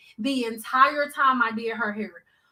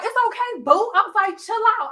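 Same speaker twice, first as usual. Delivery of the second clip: soothing; 8 semitones higher, faster than usual. Retold or imitated. Soothing the scared client.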